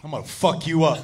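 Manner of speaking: mad. Acted. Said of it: "My buddy gets up mad".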